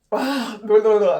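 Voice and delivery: loud exasperated "blah blah" noise; tongue-tied blabber. Real, not acted. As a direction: shake out a tripping tongue loudly. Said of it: "I'm having trouble talking".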